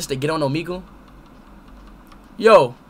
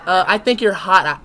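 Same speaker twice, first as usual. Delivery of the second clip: slow, spelled-out repeat; careful slow repeat for a non-native listener; slowed down for a foreigner; 3 dB louder than usual. Real, not acted. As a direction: say it slowly so she understands. Repeats for non-English speaker.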